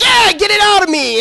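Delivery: high mock girlfriend voice; hammed-up girlfriend line, pitched high; imitating girlfriend. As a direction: squeal it up high as her.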